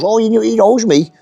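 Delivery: high-pitched, fawning imitation; mock suckhole voice. Suckholes boasting about the site manager, mock high fawning. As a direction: mimic a little crawler in a high voice. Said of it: "the little suckholes".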